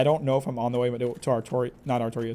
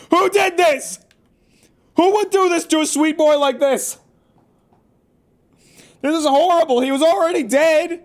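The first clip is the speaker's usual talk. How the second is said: high, loud mock outrage; high, loud outrage at the body hung from the ceiling; outraged; 12 semitones higher, 5 dB louder than usual. Real, not acted. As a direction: cry out in shocked indignation, much higher and louder. Finding the hanged body, outraged.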